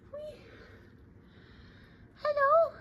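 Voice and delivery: very high cooing hello. Real, not acted. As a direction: squeal it sweetly. Greeting her pet.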